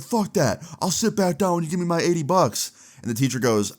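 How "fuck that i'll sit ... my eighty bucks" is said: high-pitched mock defiance; higher, indignant put-on protest; not having it. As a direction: imitate a student refusing to back down. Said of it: "Ethan's not having it".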